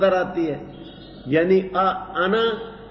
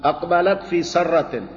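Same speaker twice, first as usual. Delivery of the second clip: slow measured recitation of the verse; Quran recitation; slower than usual. Shown as a demonstration. Teacher reciting the verse to his students, slow measured recitation. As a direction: draw the Arabic out, reciting.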